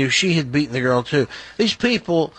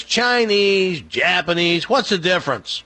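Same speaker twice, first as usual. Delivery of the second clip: raised, lightly acted brush-off; dismissive joke character; 5 semitones higher than usual. Jewish guy brushing off the Chinese guy, lightly acted dismissal. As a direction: toss it off higher, as a joke's heedless character. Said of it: "And the Jewish guy goes".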